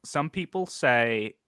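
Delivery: lightly voiced, measured president opening a point; a hint of a presidential speech, the first words pushed out; Obama voice. The streamer does a quick president impression for the stream, lightly voiced. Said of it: "And you have your Obama voice".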